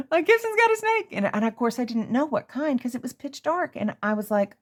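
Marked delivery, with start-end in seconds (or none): 0.1-1.1 very high, panicky cry; retold panic. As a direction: shriek the news about the snake. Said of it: "but I'm like".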